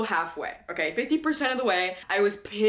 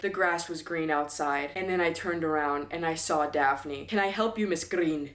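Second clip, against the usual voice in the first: lightly mimicked male audiobook narrator; Hunter Johns; 3 semitones lower than usual. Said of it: "In regards to accent, he'd be like".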